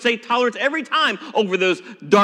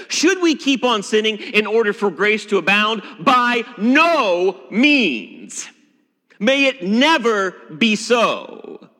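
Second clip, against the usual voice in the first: slow, lingering Apostle Paul; a touch of Paul at his most emphatic; Paul's words. Acted. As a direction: draw out by no means like the apostle. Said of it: "the Apostle Paul would say".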